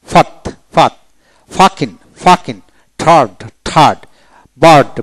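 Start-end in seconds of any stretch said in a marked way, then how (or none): 0.1-0.9 ফাত with short, R-less British form; British pronunciation. Shown as a demonstration. Teacher shows British form to learners, ফাত without R. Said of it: "ব্রিটিশে".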